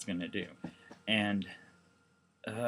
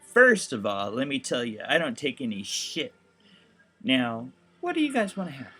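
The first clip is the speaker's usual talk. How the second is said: tough waitress; 3 semitones higher, 8 dB louder than usual. Retold or imitated. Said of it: "she'd be like".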